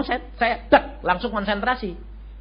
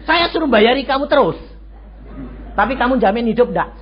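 heated retold protest; 5 semitones higher, 3 dB louder than usual. Arguing with the doctor at hospital.

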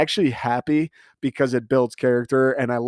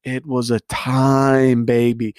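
slow, loud, savoring it; drawn-out hype; 4 dB louder, much slower than usual. Real, not acted. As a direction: stretch it out proudly. Hyping up the wedding.

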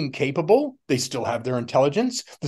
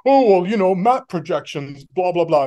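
mock dismissive; 5 semitones higher, 5 dB louder than usual. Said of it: "they'll have the people say".

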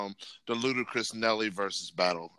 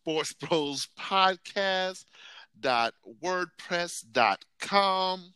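slow dictation; 6 semitones higher, much slower than usual. Real, not acted. Spelling out web address slowly.

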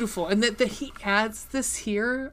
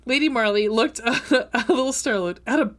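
laughing while reading; 3 dB louder than usual. Real, not acted. Reading a funny scene aloud to a friend, laughing. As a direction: giggle through the line.

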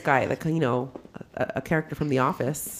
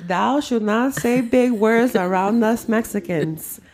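mock pompous; 6 semitones higher, 3 dB louder, slower than usual. Mocking the big word.

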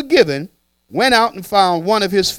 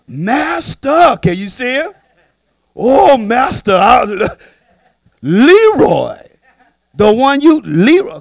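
snitching servant; 6 semitones higher, 6 dB louder, slower than usual. Acted.

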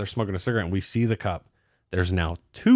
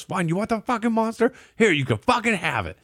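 much higher, fed-up give-in; imitating an annoyed buddy giving up; mock exasperated snap; 11 semitones higher than usual. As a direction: toss it over like you're done arguing. Adam snaps, hands drink over.

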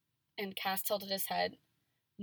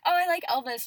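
mock excited; 9 semitones higher, 10 dB louder than usual. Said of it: "every time someone's like".

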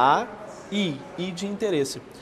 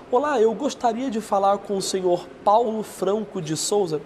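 papinho de vendedor; 4 semitones higher than usual. Shown as a demonstration. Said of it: "isso é papinho de vendedor".

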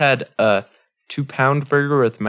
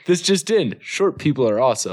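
newscaster voice. Acted. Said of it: "Headline, though".

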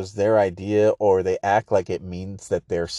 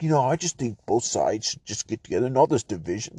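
mock podcaster voice; 5 dB quieter than usual.

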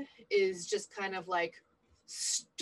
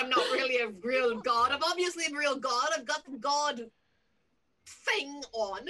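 indignant insistence; 3 semitones higher, 3 dB louder than usual. Acted. Player indignantly insists he is god.

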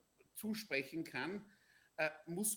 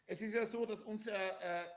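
pushing the voice louder and higher; louder to carry over the phone; speaking louder; 5 semitones higher, 3 dB louder than usual. Real, not acted. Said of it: "ich versuche etwas lauter zu sprechen".

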